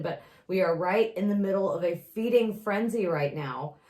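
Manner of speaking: lightly done measured political calm; a hint of a composed politician reassuring; Hillary Clinton impression. Friend doing Hillary Clinton for laughs, a touch measured. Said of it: "Hillary Clinton in nineteen ninety-eight".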